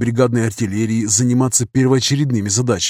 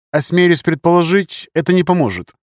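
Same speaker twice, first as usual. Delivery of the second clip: higher-pitched, courteous Englishman; polite suggestion; 6 semitones higher than usual. A narrator's reading. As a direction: venture a deferential suggestion. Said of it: "вежливо предположил англичанин".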